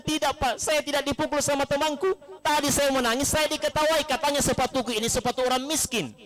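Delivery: high, lightly voiced tearful child; a child complaining to father through mild tears; crying schoolchild. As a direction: son telling his father why he cried. Menangis anaknya.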